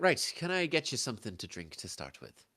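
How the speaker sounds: lifted Irish lilt, taking orders; Irish-accented hostess offering service; Irish barmaid accent. Acted. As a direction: greet the table as an Irish barmaid. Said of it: "I don't do Irish".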